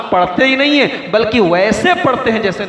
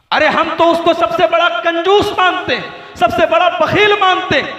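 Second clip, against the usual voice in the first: indignant shout; 8 semitones higher than usual. Real, not acted. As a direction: raise the voice against the accusation. Angry rebuttal of accusers. (ऊँची, ज़ोरदार नाराज़ आवाज़ में)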